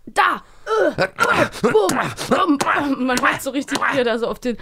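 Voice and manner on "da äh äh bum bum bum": mock thumping noises. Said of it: "wie man so hört".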